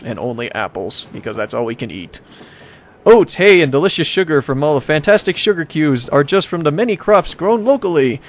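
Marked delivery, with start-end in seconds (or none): 3.1-8.2 upbeat brochure voice, pitched up in places; hammy travel-brochure announcer; tourism ad read. Acted. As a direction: sell the town like a promo. Reads travel brochure aloud.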